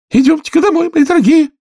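canary mother calling her chicks; trembling canary. A narrator's reading. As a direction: call chicks tremulously. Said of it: "дрожащим голосом".

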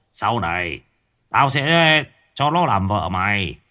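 a hint of a sly old sorcerer gloating; lightly voiced sorcerer promising the girl to his henchman. Sorcerer gloats to his henchman about the girl.

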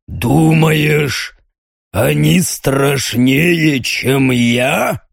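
slow, grinning demon taunt; mock him like a monster; demonic voice.

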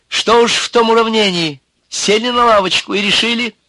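high, loud protest; indignant womanish voice. A narrator's reading. Nervous man rebukes the killer, indignant and womanish. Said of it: "возмутился человек женским голосом".

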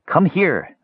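put-on high, insistent old woman; insistent crone. A narrator's reading. Old woman calling the half-elf over, insistent. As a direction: summon them in a high crone voice. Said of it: "the woman insisted".

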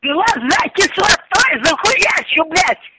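angry. Real, not acted. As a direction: spell out the threat. Acid threats.

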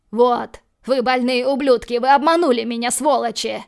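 tricked man yelling curses at his captors; outraged shout. Acted. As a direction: scream it at the swindlers. Dima realises he was tricked.

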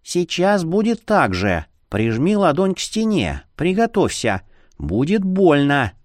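high little mosquito voice; thin, high-pitched warning; squeaky creature. A narrator's reading. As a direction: coach someone in a small, high voice. Tiny wife voice instructing him.

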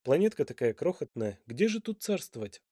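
plain reading voice

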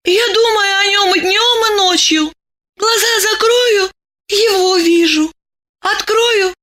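put-on high, earnest young woman; girl in love insisting he is good; dreamy devoted girl. A narrator's reading. Masha dreams about him.

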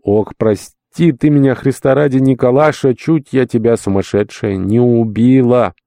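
mistress asking forgiveness. Retold or imitated. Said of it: "госпожа сидит ... и говорит".

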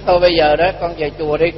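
softly retold coaxing advice; mild, hushed urging; gentle persuasion. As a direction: counsel them quietly, as if reassuring. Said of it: "Tôi mới khuyên nó".

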